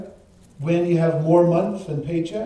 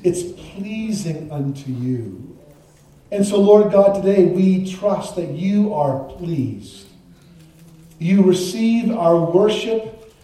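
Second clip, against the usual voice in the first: prayer; 3 semitones lower than usual. Real, not acted. Pastor thanking God before the congregation, prayerful. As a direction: pray aloud in measured phrases, settling lower.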